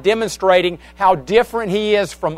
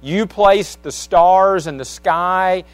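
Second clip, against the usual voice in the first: reciting song lyrics. Real, not acted. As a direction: speak the lyrics like a poem, pausing between phrases. Recites a song's chorus.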